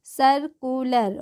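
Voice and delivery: सर्कुलर drawn out slowly, starting 'sur'; careful model pronunciation. Shown as a demonstration. Teacher modelling for learners, सर्कुलर slow and firm with a 'sur' start. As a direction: sound out सर्कुलर slowly as 'sur-koo-ler'. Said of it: "स पढ़ेंगे".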